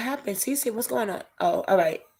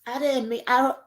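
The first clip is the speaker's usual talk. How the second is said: higher, tearful voice fighting back sobs; words pushed out through tears; real crying; 4 semitones higher than usual. Real, not acted. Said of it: "I didn't plan coming on here crying".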